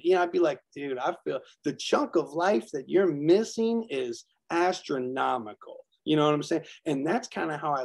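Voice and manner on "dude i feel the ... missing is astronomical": slow, pitying tone to a stranger; a slow mock-pitying word to the rude businessman. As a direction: talk down to him slowly with pity. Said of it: "I'd pity him".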